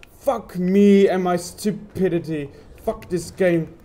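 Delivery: slow, loud self-cursing; angry at his own mistake; frustrated rage. Real, not acted. Gamer cursing himself after a failed run.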